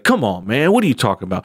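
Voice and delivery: mildly imitated exasperation, pitch swooping on the opening words; a touch of mock old-man frustration; Joe Biden, frustrated. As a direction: lightly act out turning on the questioner. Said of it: "he kinda gets frustrated with himself".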